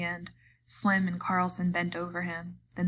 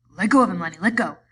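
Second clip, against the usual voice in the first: urgent shout; 9 dB louder, faster than usual. A narrator's reading. George pleading mid-fight.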